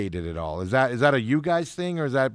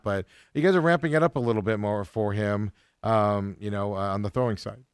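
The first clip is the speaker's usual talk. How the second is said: talking through hiccups; words broken by hiccups; 2 semitones lower than usual. Real, not acted. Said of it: "Excuse me, I have the hiccups".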